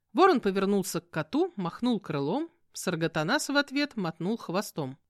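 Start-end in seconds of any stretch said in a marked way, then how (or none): none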